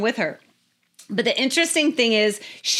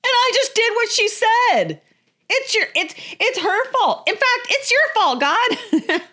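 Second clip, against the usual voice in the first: blaming husband; 11 semitones higher than usual. Retold or imitated. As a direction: pass the blame in a panicky whine. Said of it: "He goes".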